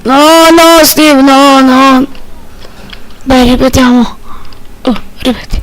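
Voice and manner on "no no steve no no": shouting. Real, not acted. Yelling at character in game.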